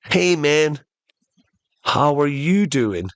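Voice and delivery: a hint of a chummy genie greeting; casual genie. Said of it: "the genie goes".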